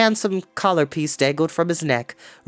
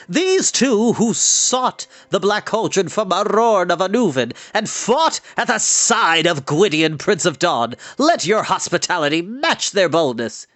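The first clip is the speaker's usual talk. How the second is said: formal introduction; 4 semitones higher than usual. Acted. Bard naming the companions to Lord Gast, formal. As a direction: present them grandly to the lord.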